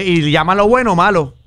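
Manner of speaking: ordinary talk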